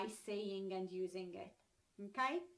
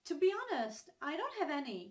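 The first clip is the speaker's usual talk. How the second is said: higher-pitched, frank mock confession; candid admission; 4 semitones higher, 4 dB louder, much faster than usual. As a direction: own up frankly, as an example. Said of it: "want to express how honest you are".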